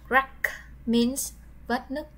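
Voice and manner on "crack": model word. Shown as a demonstration. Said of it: "Now we have the noun crack".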